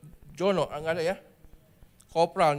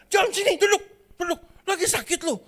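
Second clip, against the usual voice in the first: calling out across canteen; 10 semitones higher, 4 dB louder, faster than usual. Acted. Third friend calls across canteen.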